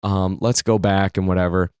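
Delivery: lightly acted resignation, kept low; dejected. Dad giving up on the tractor hunt, dejected. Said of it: "he's all dejected at this point".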